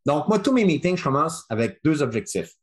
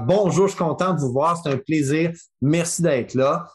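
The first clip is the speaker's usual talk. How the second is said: smiling voice; 3 semitones higher than usual. Shown as a demonstration. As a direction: greet them with a smile in your voice. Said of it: "le sourire dans la voix". (voix souriante)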